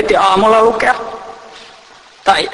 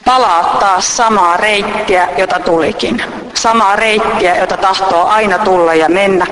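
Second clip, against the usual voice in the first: poem reading. Acted. Reading a reflective text aloud to listeners, measured.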